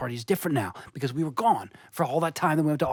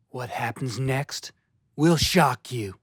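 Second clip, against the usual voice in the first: clickbait video narrator; 3 semitones lower, slower than usual. Acted. Clickbait teaser, slowed.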